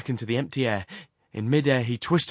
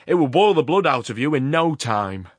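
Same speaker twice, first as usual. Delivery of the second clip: loud, raised threat over the roar; menacing shout; 5 semitones higher, 9 dB louder than usual. A narrator's reading. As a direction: lean in with the threat. Horrocks shouting over the furnace.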